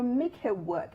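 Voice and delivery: "make her work" again with a laugh, rising; laughing repeat. Real, not acted. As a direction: tease it out while laughing.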